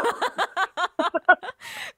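big bright burst of laughter; loud laugh. Real, not acted. Host laughs at the caller's joke.

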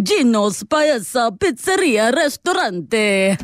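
put-on drawn-out, theatrical Italian accent; hammed-up Italian announcement; playful Italian flourish. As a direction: relish the Italian restaurant name, slowly. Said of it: "had to do it that way".

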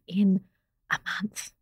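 mock-scared whisper. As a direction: drop to a fearful hush. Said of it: "I had to whisper it".

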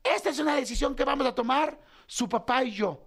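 grito agudo para callar a todos; orden tajante imitada. Retold or imitated. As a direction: imita una orden de mando, voz muy alta de tono. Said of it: "en el momento les dijo". (mandando callar a gritos)

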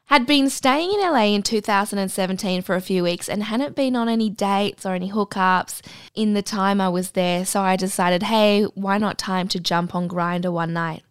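measured read-aloud storytelling voice; story narration. Acted. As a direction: read the anecdote aloud, composed. Reads out an anecdote.

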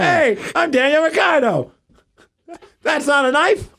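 high, hammed-up Australian accent; mock Australian accent. Friend mocking an Australian driver, hammed-up Australian accent. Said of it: "he's Australian, mate".

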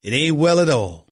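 "It ain't well at all" in a firm Southern twang; mock Southern accent. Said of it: "with my regular Cowboy accent".

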